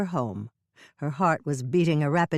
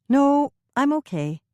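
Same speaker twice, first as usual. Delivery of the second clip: brisk, higher and louder refusal; a lightly voiced brushing off; Hannah's voice; 10 semitones higher, 6 dB louder than usual. A narrator's reading. Hannah turning down Norman's offer, brisk.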